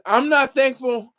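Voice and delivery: reading out Chelsea's sass, slow and punchy; reading a viewer's comment. Retold or imitated. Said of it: "Chelsea says".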